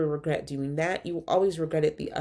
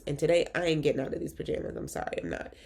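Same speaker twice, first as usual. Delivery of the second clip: congested; 4 dB quieter, faster than usual. Real, not acted. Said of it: "I'm super congested".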